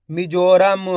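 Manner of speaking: मिजोरम joined up with a long जो; drawn-out blended word. Shown as a demonstration. Teacher blending letters for learners, मिजोरम drawn out. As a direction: say मिजोरम deliberately, stretching its vowels. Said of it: "एक एक अक्षर का उच्चारण करके".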